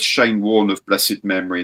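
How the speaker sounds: normal talking voice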